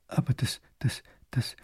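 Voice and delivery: frightened stammered whisper, breaking off; stammering. A narrator's reading. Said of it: "kann der bleich gewordene Großherzog nur stottern". (verängstigt stotterndes Flüstern)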